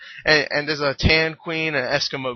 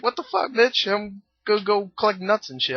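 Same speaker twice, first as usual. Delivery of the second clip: higher-pitched mock rabbit voice; lightly voiced rabbit; 4 semitones higher than usual. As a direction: play an annoyed rabbit, pitched up. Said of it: "this rabbit's like".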